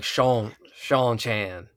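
"Seanchan" drawled out in Texan; Texan pronunciation. Shown as a demonstration. Host tests how Texans would say it, drawled "Seanchan". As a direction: stretch the vowels of "Seanchan" like a Texan. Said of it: "we're saying it wrong, then it should be like".

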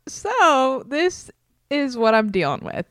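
lisping through a retainer; slight lisp. Real, not acted. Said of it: "to now have a slight lisp".

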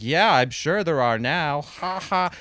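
retelling a guest's unfunny laugh at her own joke; mock fake laugh. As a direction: ham up her awkward chuckle. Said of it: "And as she laughed".

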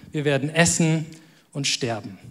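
low, hushed, sinking at the end; grave resignation. Acted. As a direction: read it softly and heavily, pausing before the final words. Widow's hopeless words read out.

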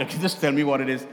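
imitating an arrogant man, low and quick; low, hurried retelling of an arrogant demand. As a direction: toss it off fast and low, mock-arrogant. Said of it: "Like, very arrogant".

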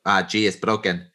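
lightly imitated Spanish accent. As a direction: retell it as a Spanish doctor, accent lightly put on. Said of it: "That's my Spanish accent".

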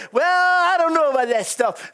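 a hint of a doubtful scoffer; lightly voiced skeptic; doubting worldly skeptic. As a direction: shrug it off like an unbeliever. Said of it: "The world might say".

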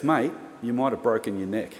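retold sober warning in a level voice; understated, matter-of-fact gravity; serious. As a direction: imitate a lifesaver turned serious. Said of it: "to serious guy".

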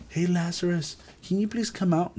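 soft, timid call, not a cry; meek polite call. Shown as a demonstration. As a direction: ask politely and quietly, as if unsure. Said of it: "Look, he didn't do it".

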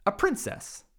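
a busy dragon brushing off a princess; grumpy dragon. Acted. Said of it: "The dragon stuck out his nose from the door and said".

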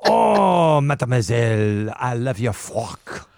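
a hint of hammy French pirate; mock French pirate, drawn-out oh. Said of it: "Maybe a French pirate".

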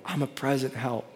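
hushed, low, gently imitated whisper; retold whisper. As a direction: drop low and soft, as if whispering to him. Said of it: "God's whispering to him".

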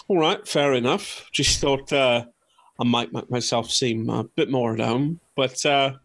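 put-on casual, everyday London accent; halting, at-home London accent; different London accent. Paul conceding to the hunters, casual London accent. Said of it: "A different accent".

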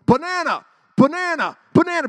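high, loud preacher-style exclamation; mock revival shout. Showing the crowd revival power, mock preacher shout. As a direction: holler a nonsense word like revival preaching.

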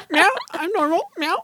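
teasing cat voice acting innocent; mock innocent cat. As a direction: play the cat pretending to be normal. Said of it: "You weren't supposed to hear that one".

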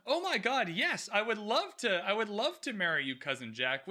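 a giddy, late-dawning yes; thrilled Prudence. Retold or imitated. Prudence accepting Cousin Jack's proposal, giddy. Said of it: "Prudence ... goes".

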